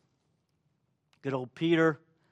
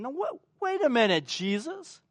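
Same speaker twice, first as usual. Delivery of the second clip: higher, pleading protest to Jesus; a hint of hurt disbelief, raised pitch; disciples' stunned reaction; 6 semitones higher, 3 dB louder than usual. Disciples protesting to Jesus, pitched up and pleading. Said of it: "we can only imagine their reaction".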